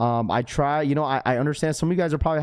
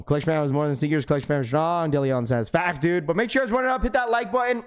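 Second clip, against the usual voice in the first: raspy voice; 3 semitones higher, faster than usual. Real, not acted. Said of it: "my raspy voice this morning".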